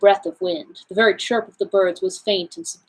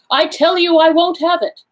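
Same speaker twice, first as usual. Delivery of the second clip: dreamed shout, louder and higher; 9 semitones higher, 5 dB louder than usual. A narrator's reading. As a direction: bellow it out in the dream. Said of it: "go shouting out".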